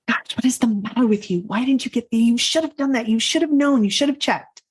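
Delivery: hushed then sharp self-scolding at night; inner critic scolding. Retold or imitated. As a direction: berate yourself like a harsh inner critic. Harsh inner critic berating herself.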